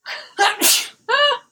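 a real sneeze, then laughter; sneezing. Real, not acted. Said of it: "Sorry, sneeze break".

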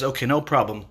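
mild, easygoing dismissal; smiling reassurance. Acted. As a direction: send the servants off calmly. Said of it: "he smiles at them".

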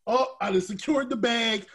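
lightly voiced complacent player; mock Jalen Smith. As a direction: mimic a player who stopped trying. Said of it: "Jalen Smith said".

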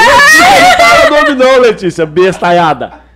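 loud, slow laughing yell; laughing shout. Real, not acted. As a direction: shout it out while cracking up. Begging not to say name.

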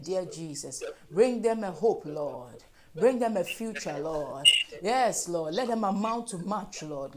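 insistent pleading prayer, each line falling away on the address; fervent prayer. Real, not acted. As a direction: lead the congregation in earnest, repetitive prayer. Leads congregational prayer.

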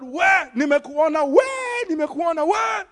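retold shout. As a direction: bark it out like an angry policewoman stopping a driver. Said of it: "And she shouted".

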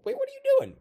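high, loud cry of alarm; acted shocked interruption; alarmed shout. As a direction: yell in sudden horror.

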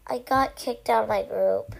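understated sadness, pitch dropped; sad. Acted. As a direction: say it a little downcast. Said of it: "He spoke sadly".

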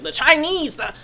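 botched presidential impression; badly faked politician voice; Trump. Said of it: "'cause he was like".

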